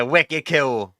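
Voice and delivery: a half-hearted Boston accent on wicked cool; Boston accent try. Shown as a demonstration. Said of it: "I can't do a Boston accent".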